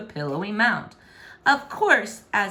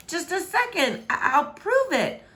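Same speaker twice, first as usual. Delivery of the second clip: flustered, stammering plea; stammered reply; 10 semitones higher than usual. A narrator's reading. Caught princess stammering to the king. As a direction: stumble over it caught out. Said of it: "was her stammered reply".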